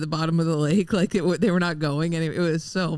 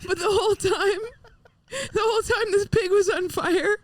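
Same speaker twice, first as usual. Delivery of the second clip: laughing; 13 semitones higher than usual. Real, not acted. Teller laughing through story.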